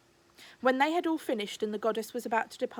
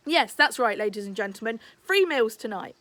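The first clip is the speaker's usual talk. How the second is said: loud barker calling to the crowd; Rambushy calling out to his customers, loud barker; announcing Rambushy; 5 dB louder than usual. Acted. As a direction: sell it like a fairground barker.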